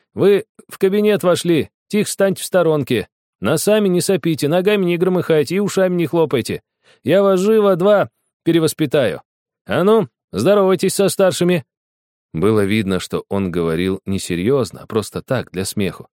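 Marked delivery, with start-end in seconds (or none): 0.1-11.6 high, clowning mock-strict boss; silly cheerful voice. A narrator's reading. Boy clowning as strict tutor to little girls, silly. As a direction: play the bossy teacher for laughs. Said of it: "весёлым дурацким голосом".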